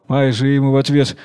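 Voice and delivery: ordinary delivery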